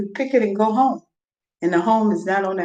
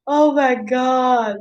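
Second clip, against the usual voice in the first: laughing disbelief; 5 semitones higher, much slower than usual. Real, not acted. Laughing at her own rant.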